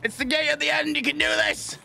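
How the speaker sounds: high, gentle coaxing; high encouraging voice. Pretend. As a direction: urge them on kindly. Good side encouraging, high.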